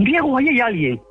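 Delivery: retold frightened cry. Cousins clinging to Diego spot someone, retold frightened cry. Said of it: "me gritaron".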